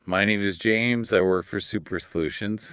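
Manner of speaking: flat, droning robot voice; monotone robot impression. Shown as a demonstration. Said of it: "I'll do my best robot impression".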